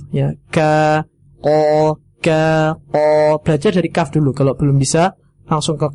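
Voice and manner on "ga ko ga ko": ga from the front, ko further back; contrasting kaf and qaf; kaf then qaf. Shown as a demonstration. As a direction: alternate ga and ko, shifting the tongue back. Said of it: "Dia dekat juga dengan kaf".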